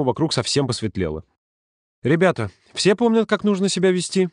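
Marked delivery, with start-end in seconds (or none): 2.0-4.3 high, admonishing call to the group; didactic. A narrator's reading. Leader reminding children how to behave, didactic. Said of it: "спросил Володя с назиданием".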